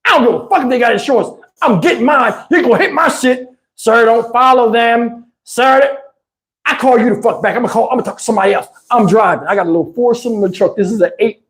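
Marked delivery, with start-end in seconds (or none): 0.1-8.7 1 ranting at operator. Retold or imitated. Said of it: "I started blacking".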